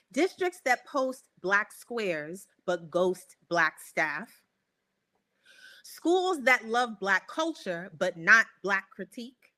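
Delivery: measured reading with spaced key words; slow, deliberate. Real, not acted. Host reading the next options to guest, slow and deliberate. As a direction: set out each choice slowly and clearly. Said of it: "I'm gonna say them slowly".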